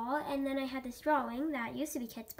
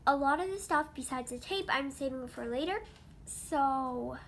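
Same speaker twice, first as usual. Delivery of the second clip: suppressing hiccups; 3 semitones lower than usual. Real, not acted. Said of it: "sorry, I have hiccups right now".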